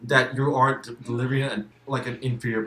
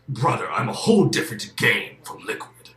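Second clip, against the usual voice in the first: Solid Snake impression; 5 dB louder than usual. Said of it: "you had John Saigan as Solid Snake going".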